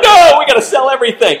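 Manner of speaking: loud, high-pitched mock panic; mock freak-out. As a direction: blurt it out loudly, imitating a panicked crowd. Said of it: "y'all are freaking out me".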